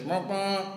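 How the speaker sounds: vocal horn toots; imitated vuvuzela horn. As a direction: mimic a vuvuzela's blare. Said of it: "blows his vuvuzela".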